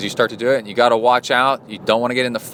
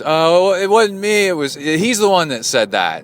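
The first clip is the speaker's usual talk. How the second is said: much higher, louder whiny deflection; defensive denial; 7 semitones higher, 4 dB louder than usual. Retold or imitated. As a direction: pass the blame in a panic. Drafter denies and blames friend.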